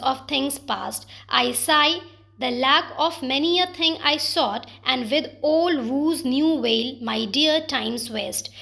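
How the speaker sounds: slow, measured poem reading; poem recitation. Shown as a demonstration. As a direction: read the sonnet slowly, weighing each line. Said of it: "lines कुछ इस तरह से हैं".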